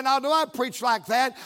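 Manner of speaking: emboldened preacher's challenge; real bold. Retold or imitated. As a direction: fire it back boldly. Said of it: "then I got real bold".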